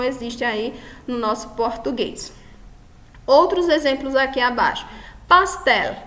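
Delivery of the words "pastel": "Pastel" higher, with stress on TEL; stress on last syllable. Shown as a demonstration. Teacher showing an aguda word, "Pastel" stressed on TEL. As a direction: punch the final syllable of "Pastel". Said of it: "a sílaba mais forte é a última".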